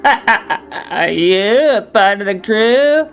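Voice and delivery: mocking laugh. Captain laughs at Smee's request for promotion, mocking. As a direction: laugh him off as a joke.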